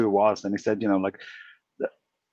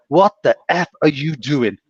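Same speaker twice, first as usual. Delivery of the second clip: mean; 2 semitones higher, 3 dB louder than usual. Retold or imitated. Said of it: "and he was mean".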